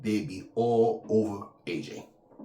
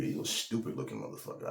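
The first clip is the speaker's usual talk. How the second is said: a much lower, softer take of the insult; 10 semitones lower, 7 dB quieter than usual. Shown as a demonstration. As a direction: drop the insult low and quiet. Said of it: "I didn't say it 'cause it sound funny".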